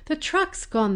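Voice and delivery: high, loud excited yell to dad. A narrator's reading. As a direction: shout it out, the truck has finally left.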